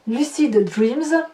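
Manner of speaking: A song title said slowly with a French accent; French-accented English. Real, not acted. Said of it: "Pardon pour mon accent".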